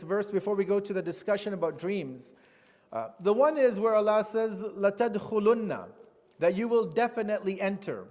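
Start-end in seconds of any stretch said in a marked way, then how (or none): 4.6-5.9 لَتَدْخُلُنَّ recited fast, doubled noon held; Arabic quote. Shown as a demonstration. Teacher quoting the verse to students, quick Arabic recitation. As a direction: rattle off لَتَدْخُلُنَّ in Arabic with a stressed shadda noon. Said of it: "this lam that Allah mentions".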